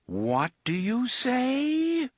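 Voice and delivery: high, slow, stunned machine voice; can't believe what it heard; disbelief. A narrator's reading. Big Blaine shocked by Roland's insult, disbelieving. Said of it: "In its clear disbelief".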